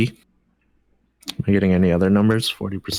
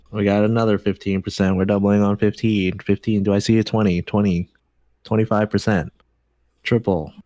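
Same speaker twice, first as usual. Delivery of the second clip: auctioneer. Pretend. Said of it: "It's like a bid now".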